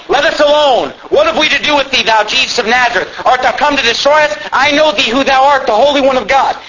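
a touch of the possessed man's cry; mildly acted outcry.

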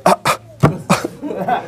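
short, halting grunts of disbelief; imagined stammering disbelief. Acted. Imagined Ahimaaz reacting to Joab's order, stammering in disbelief. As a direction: stammer as if lost for words. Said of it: "imagine being Ahimaaz".

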